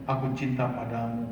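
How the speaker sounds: soft and gentle, almost hushed; tender declaration. Shown as a demonstration. Husband telling his wife he loves her, soft and gentle. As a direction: murmur it lovingly. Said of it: "itu kalau istri diwirain, diomongin".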